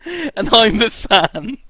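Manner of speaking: slow, loud and high, spelling it out; exasperated. Real, not acted. Explaining roles, exasperated.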